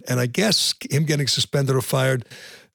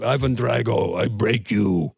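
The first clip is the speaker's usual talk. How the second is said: lightly voiced Russian accent, slightly low; Ivan Drago; 3 semitones lower, slower than usual. Host showing he can imitate a Rocky villain, Russian accent. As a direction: imitate a Russian movie boxer's threat. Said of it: "You can imitate Drago".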